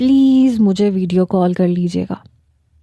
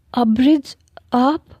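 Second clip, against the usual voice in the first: slow, higher disbelieving question; stunned surprise; 4 semitones higher, much slower than usual. Acted. Man realises caller is his fiancée, slow stunned surprise. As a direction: caught off guard, drawing out her name. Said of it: "میں nervous ہو گیا".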